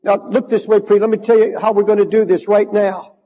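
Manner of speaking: normal talking voice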